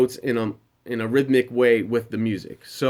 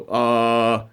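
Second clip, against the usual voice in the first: chest resonance; 3 semitones lower than usual. Shown as a demonstration. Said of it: "like a deep ch-, vibration".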